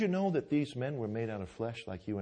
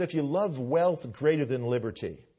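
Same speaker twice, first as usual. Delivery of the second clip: Samuel Adams quote; 3 semitones higher, 8 dB louder than usual. Retold or imitated. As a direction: thunder it like a patriot shaming the waverers. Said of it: "He said".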